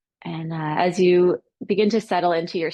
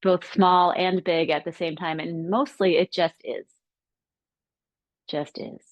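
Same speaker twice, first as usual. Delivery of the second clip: measured, reflective guidance with long pauses; calm meditation teacher, pausing between phrases; guided meditation. Acted. Leads reflection within meditation.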